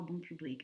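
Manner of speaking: bon public said the French way, nasal on. Shown as a demonstration. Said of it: "what the French call".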